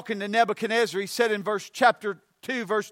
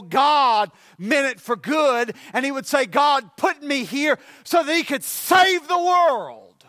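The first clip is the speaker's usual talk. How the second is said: full-force preaching; 2 semitones higher than usual. Real, not acted. Preacher testifying for Joseph to the congregation, full-force preaching. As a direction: drive the point home to the congregation.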